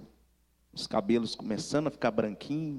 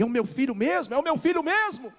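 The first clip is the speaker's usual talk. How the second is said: mother in tears; 11 semitones higher, 3 dB louder than usual. Retold or imitated. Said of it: "Ela em prantos começou a falar".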